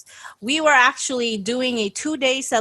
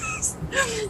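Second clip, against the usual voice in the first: witch laugh; 14 semitones higher, 8 dB quieter than usual. Pretend. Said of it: "give me your best witch laugh".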